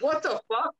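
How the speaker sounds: stunned outrage; shocked outburst. Retold or imitated. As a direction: blurt it out in disbelief. Retold own shocked reaction.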